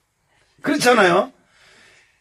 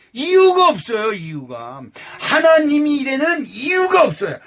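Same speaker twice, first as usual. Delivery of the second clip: normal talking voice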